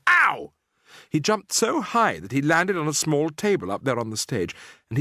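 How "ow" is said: put-on higher, louder boy's yelp; yelled. A narrator's reading. Bruno jumping as if stuck by a hat pin, yelp. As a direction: yelp in sudden pain. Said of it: "he yelled".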